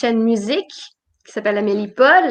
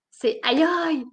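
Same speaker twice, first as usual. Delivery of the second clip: mock ouch; 4 semitones higher, 6 dB quieter than usual. Shown as a demonstration. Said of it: "Puis quand je me fais mal".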